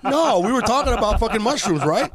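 high, loud comic objection; loud protest. Real, not acted. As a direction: push back loudly over the laughter. Protests teasing over his long story.

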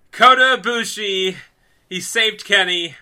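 real fan excitement; thrilled reveal. Real, not acted. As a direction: announce the rescuer as the big climax. Climax of the emotional rescue story.

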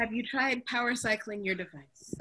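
lightly voiced help desk agent; a hint of a tech support script; customer service voice. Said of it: "That's a customer service voice".

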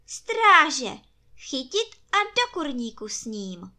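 high, loud call to the guards; commanding empress. A narrator's reading. Empress orders the guards to take the rooster to the henhouse, loud. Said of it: "zavelela císařovna".

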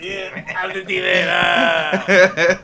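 demon voice. Pretend. Repeating the demon voice.

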